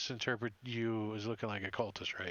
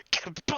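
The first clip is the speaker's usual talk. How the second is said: higher, punchy kapow; mock blast noise; 6 semitones higher, 3 dB louder than usual. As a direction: voice the blast's impact. Imitating the blast hitting.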